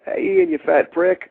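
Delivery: hammed-up friendly invite then a jab; imitating JBL. JBL inviting Axel to eat, snubbing Ian, mock jovial voice. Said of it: "be like".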